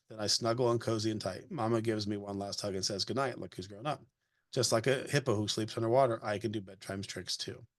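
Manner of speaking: gentle storybook read-aloud voice; reading a picture book aloud. Acted. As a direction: read it to a child, evenly paced.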